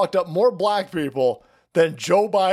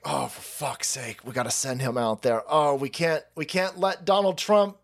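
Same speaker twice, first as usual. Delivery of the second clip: panicked aides; 5 semitones higher than usual. Retold or imitated. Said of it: "his aides were like".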